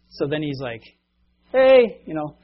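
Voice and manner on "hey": loud high call across the diner; a dad hailing the waitress, loudly. Retold or imitated. Dad at a diner calls the grumpy waitress, loud high hail.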